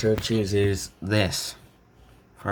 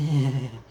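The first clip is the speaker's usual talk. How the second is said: short, higher-pitched put-on laugh; acted awkward chuckle; 4 semitones higher, 4 dB louder than usual. Naruto dodging a question about where he's been, awkward chuckle. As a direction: give a little mock chuckle.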